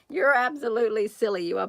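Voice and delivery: loud playful tease; playful teasing. Real, not acted.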